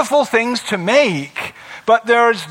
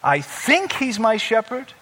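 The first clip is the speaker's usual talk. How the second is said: softer, hesitant, questioning murmur; unsure inner doubt; 6 dB quieter than usual. Shown as a demonstration. Believer doubting inwardly while reciting, soft and unsure. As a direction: trail off as if hoping it's true. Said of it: "you're kind of still thinking".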